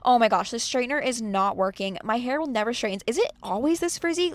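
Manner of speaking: a touch of mock whining at the mirror; nagging complaint. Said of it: "so I was nagging on myself".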